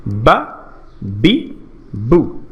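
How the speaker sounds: বা, বি, বু as brief low syllables; short vowel drill. Shown as a demonstration. Teacher recaps the three marks, বা, বি, বু each short and separate. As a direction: say বা, বি, বু with short vowels, one at a time. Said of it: "করতে হবে খুব দ্রুত, স্বল্প".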